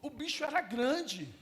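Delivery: loud, punchy remark; emphatic aside. Real, not acted. Pastor stressing to the church how huge the man was, loud. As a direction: hammer home how big he was.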